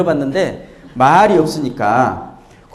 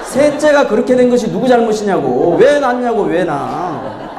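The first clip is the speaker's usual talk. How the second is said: indignant reproach; 4 semitones higher than usual. Acted. Voicing third child's reproach to parents.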